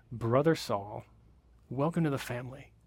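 soft, tender welcome; tender greeting. Retold or imitated. Ananias greeting Saul, soft and tender. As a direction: welcome him gently as a brother. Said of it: "He says".

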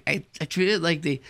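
normal talking voice

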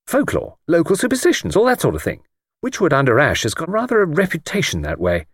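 breezy, confident pal with a plan; breezy Jimmy. Acted. Jimmy explains the folklore cover to his friend, breezy. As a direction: rattle off the cover story with assurance. Jimmy briefs Luke, lively.

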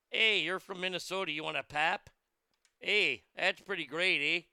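mock Minnesota accent sliding into Canadian. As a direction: put on a light, folksy Canadian accent. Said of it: "I slipped into Canada".

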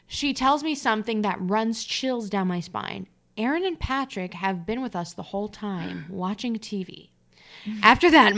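emphatic storyteller delivery; dramatic story narration. A narrator's reading. Reader reaching the chilling end of the story, dramatic narration. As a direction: read the scary tale with emphasis. Reads a personal story aloud.

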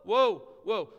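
loud whoas of awe, fading; Isaiah overwhelmed, calling out in wonder; preacher voicing Isaiah's loud awestruck whoas; awed cry. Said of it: "as Isaiah looks and he says".

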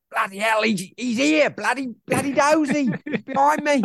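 high, rough Betis voice, startled; Betis impression. Co-host imitating the manager spotting a fan behind him. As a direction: blurt it out as Betis spotting Dozy. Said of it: "do you think Betis knew he was there".

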